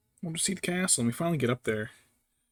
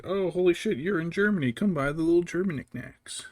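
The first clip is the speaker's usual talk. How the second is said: higher, louder gushing tourist voice; mock tourist; 6 semitones higher, 4 dB louder than usual. Mocking the in-laws shopping for knickknacks, higher and louder. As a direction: ham up the excited shopper. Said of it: "So, like".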